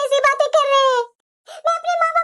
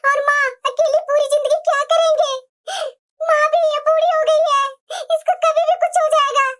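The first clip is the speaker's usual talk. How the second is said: tearful. Acted. Daughter dreading a lonely life, tearful. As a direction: voice catching with tears. Daughter fears being left alone.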